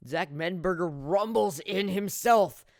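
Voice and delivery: big play-by-play energy; excited touchdown call. Real, not acted. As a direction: punch out the scoring run. Calling a touchdown run.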